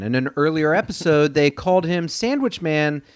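anchorman correction read; news reporter voice. Pretend. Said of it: "you said that like a news reporter".

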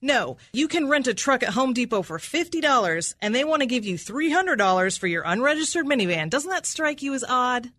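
aggressive, incredulous questioning; accusatory. Real, not acted. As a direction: hammer the witness with disbelief. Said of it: "obviously, accusatory".

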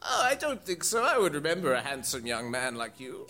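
puzzled character voice, lightly put on; friendly old groundskeeper. Groundskeeper denies knowing the student, lightly put-on voice.

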